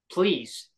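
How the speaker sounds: "please" leaned on with a slow falling tune; stressed please. Real, not acted. Pleading to Krista Freeland with a stressed "please". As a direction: put real weight on "please". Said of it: "I literally stress the word please".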